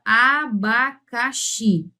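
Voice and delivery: "abacaxi" slowly, each syllable separate. Shown as a demonstration. Teacher giving an oxytone example, syllable by syllable. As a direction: spell out "abacaxi" in four slow syllables.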